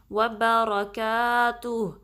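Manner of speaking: slow, drawn-out Quranic recitation. Shown as a demonstration. Teacher reciting the phrase for students to copy. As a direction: chant it slowly with a heavy lam on اللَّهِ. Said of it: "یہاں پہ ہم stop کریں گے".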